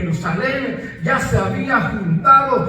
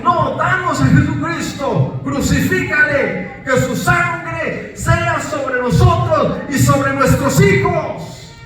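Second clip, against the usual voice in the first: higher mob cry, peaking on hijos; crowd shout; 4 semitones higher, slower than usual. Retold or imitated. Preacher voicing the crowd taking the blood upon them, shouting. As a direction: call the curse down on yourselves. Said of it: "Y ellos dicen".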